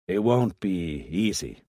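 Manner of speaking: slow, unsure reluctance; hesitant. Acted. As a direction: hold back, weigh each word. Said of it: "said Munro hesitantly".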